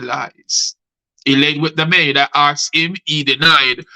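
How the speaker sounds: rhythmic rhymed storytelling; spoken-word poem. Acted. Poet recounts the cheating to Vlad, spoken-word delivery. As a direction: keep the verse rolling through both speakers' lines. Recites poem Caught on Camera.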